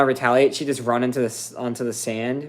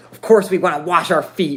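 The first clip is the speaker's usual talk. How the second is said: nasty, disrespectful, mean, raised voice; 5 semitones higher, 6 dB louder than usual. Retelling a customer's angry reply to a simple question: imitating a mean tone. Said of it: "the meanest way".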